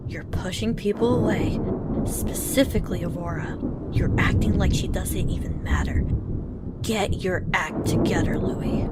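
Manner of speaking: stern scolding. Acted. Scolding Louis for pushing Aurora away, stern and loud. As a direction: lay into him firmly.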